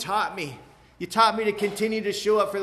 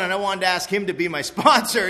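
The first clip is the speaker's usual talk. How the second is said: much louder, laughing through the words; laughing shout; 10 dB louder than usual. Real, not acted.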